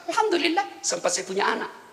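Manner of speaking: grateful, quiet. Acted. Job answers calmly, grateful.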